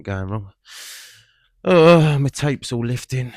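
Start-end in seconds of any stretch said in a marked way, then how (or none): 1.6-3.3 sudden loud dismayed oh; surprised. Real, not acted. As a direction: caught off guard by the tape. Sees tape lifting on car.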